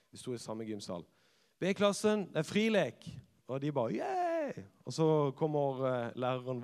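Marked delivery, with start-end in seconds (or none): 1.6-3.1 loud, high call across the gym hall; cheerful teacher shout. Retold or imitated. Teacher calls out to class. 4.0-4.6 a very high, squealed yay; cheering. Retold or imitated. Class cheers at free play.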